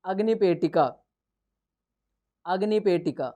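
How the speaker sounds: द्विचक्रिका said syllable by syllable with a falling close; clear pronunciation. Shown as a demonstration. Teacher naming the cycle in Sanskrit, clearly. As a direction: spell out द्विचक्रिका in sound, then repeat it. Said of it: "इसको क्या कहते हैं".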